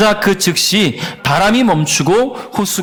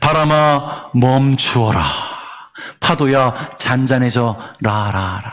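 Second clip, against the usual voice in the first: echoing voice-actor voice, lower and slower; 7 semitones lower than usual. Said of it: "성우님의 목소리가 그렇잖아요 / 이펙트가 걸린 것 같은 느낌".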